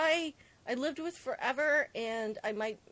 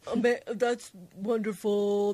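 mock amazement; 3 semitones lower, 8 dB louder, slower than usual. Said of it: "I'm kidding".

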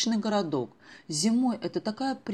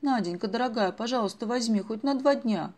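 higher, coaxing plea; girl begging her mother's friend to take her along, pleading higher; 5 semitones higher, 4 dB louder than usual. Acted. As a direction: beg sweetly like an eager girl. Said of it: "взмолилась Даша".

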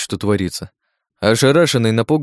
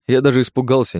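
usual speaking voice

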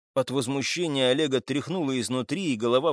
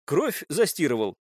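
restrained accusing statement; 3 semitones higher than usual. Acted. Captive accuses suspect of washing out blood, accusing. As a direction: put it to him as fact. Accusation, then echoed back.

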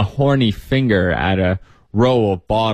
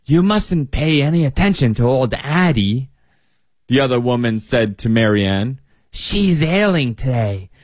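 put-on old woman voice; 3 semitones higher than usual. Old woman excusing her roommate.

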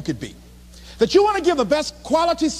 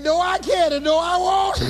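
mock wailing refusal; 4 semitones higher than usual. Acting out worn-out refusal.

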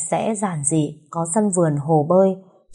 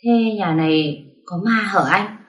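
timid question; slower than usual. Acted. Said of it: "Tôi rụt rè hỏi lại".

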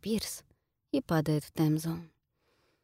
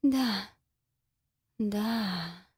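lullaby-like; 3 semitones higher than usual. Acted. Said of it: "как тихая колыбельная".

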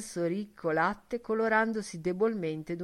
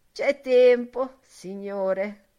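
first take; 4 semitones higher, 10 dB louder, much slower than usual. Acted. Old woman reassures.

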